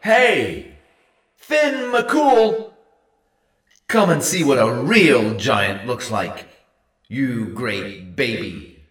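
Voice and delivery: bellowing across the sea. A narrator's reading. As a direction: call across the water at full lungs. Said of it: "he bellowed".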